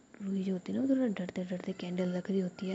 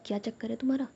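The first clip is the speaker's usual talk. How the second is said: mildly annoyed; 3 semitones higher, much faster than usual. Acted. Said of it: "जिया ना थोड़ा गुस्से में हो जाती है".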